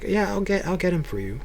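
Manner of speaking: lightly voiced, obliging woman; nice wife. Elder's wife answering the door to him, nicely. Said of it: "His wife has always been really nice".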